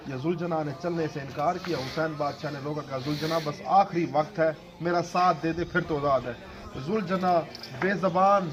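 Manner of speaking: mournful preaching recital, rising in grief; majlis narration. Acted. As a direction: recite the tale to move mourners to tears. Zakir narrates Karbala majlis. (غمگین مجلس خوانی)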